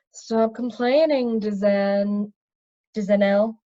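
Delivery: slow, smooth and measured; silky wizard brushing off a complaint; lightly voiced smooth villain. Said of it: "replied a smooth voice".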